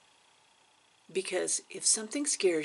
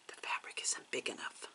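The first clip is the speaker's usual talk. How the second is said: much lower, softer inner voice; low, quiet niggling thought; hushed nagging doubt; 12 semitones lower, 10 dB quieter than usual. Retold or imitated. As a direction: drop to a murmur for the secret worry.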